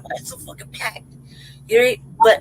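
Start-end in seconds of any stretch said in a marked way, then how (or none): 0.0-1.1 hushed, breathy complaint under the breath; whispered grumble. Retold or imitated. Rider on a packed midnight bus, whispering annoyed to himself.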